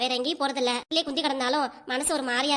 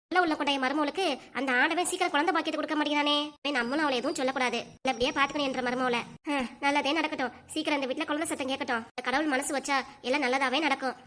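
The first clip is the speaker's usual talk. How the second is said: quiet wishing; 5 dB quieter than usual. Acted. Mother-in-law alone, praying for a grandchild, quiet and wishful. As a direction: murmur a hopeful prayer under your breath.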